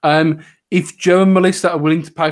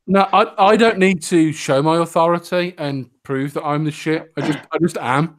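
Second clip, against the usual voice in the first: sarcastic. Pretend. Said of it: "Sarcasm, obviously".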